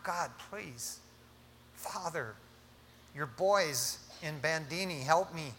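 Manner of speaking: hushed mock plea to God; crying out softly. Preacher acts a believer in trouble, praying in a soft plea. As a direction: plead under your breath, in short pieces. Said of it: "We're crying out".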